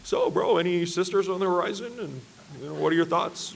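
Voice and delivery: mildly condescending, over-casual chumminess; patronizing. Retold or imitated. Brother sounding out his workout partner, lightly patronizing. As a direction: imitate a brother probing with a knowing air. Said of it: "patronizing me a little bit".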